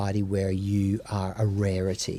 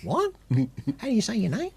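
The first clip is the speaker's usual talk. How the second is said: high mock officer voice; 11 semitones higher, faster than usual. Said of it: "acted quote of immigration officer".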